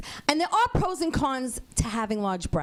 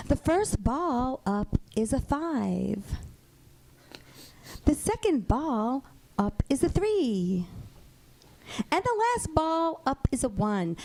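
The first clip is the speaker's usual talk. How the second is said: Midwest lottery host; 3 semitones lower than usual. Retold or imitated. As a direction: lightly read the draw like a mild-mannered TV host. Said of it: "this is how she draws the numbers".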